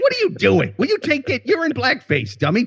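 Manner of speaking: high-pitched mock scolding; acted parental outrage, high and incredulous; exasperated father. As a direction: scold a foolish kid in disbelief. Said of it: "and I'd be like".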